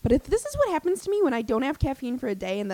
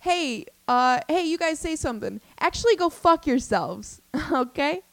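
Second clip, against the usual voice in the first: rude mock crowd work; 5 semitones higher than usual. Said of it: "so rude".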